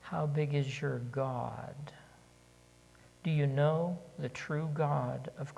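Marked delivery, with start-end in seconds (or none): 0.0-1.8 slow, with "big" pressed in "How big is your God?"; stress on big. Shown as a demonstration. Preacher slowly stresses "big" for the congregation. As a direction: linger on "big". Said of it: "Do you put your emphasis on big".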